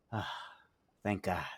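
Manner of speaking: acted relief after a near miss; sigh of relief. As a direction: breathe out, then say it relieved. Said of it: "breathes in a massive sigh of relief".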